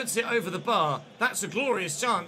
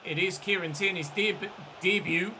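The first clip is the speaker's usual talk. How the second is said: Geordie. Real, not acted. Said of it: "I said it like a Geordie".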